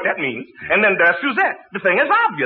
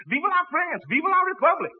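mock French cheer; 9 semitones higher, 5 dB quieter than usual. Shown as a demonstration. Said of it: "The French always yells that".

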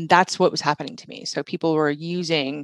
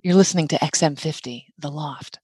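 radio DJ voice. Shown as a demonstration. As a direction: purr it like a radio host. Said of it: "my D J voice is what's different".

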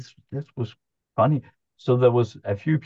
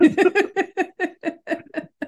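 burst of laughter. Real, not acted. Telling a friend about the odd monk, real high laugh. Retelling the monk's strange words.

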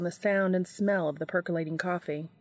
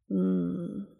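sleepy murmur. A narrator's reading. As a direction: mumble it half asleep. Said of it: "Castiel murmured".

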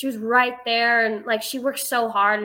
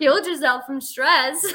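laughing; 4 semitones higher than usual. Retold or imitated. Quoting mom while laughing.

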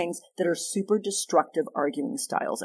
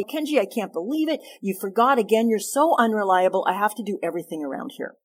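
critical complaint; 3 semitones higher than usual. Shown as a demonstration. Wife scolding husband about garbage, accusing and exasperated. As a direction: nag him as if fed up. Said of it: "That's a super destructive criticism".

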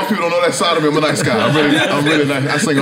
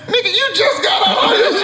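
incredulous. Retold or imitated. Inner disbelief quote.

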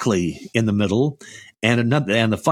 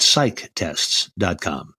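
measured, word-by-word web address; deliberate, separated words; slow website readout; 4 semitones lower, much slower than usual. Real, not acted. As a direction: say the address slowly so listeners catch it. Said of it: "say these websites, uh, slowly".

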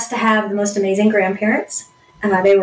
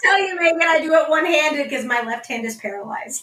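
laughing; 6 semitones higher than usual. Real, not acted. Guest laughs while bragging.

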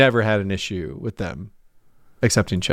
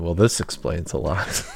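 understated; 5 semitones lower than usual. Retold or imitated. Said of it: "with maybe a hint of understatement".

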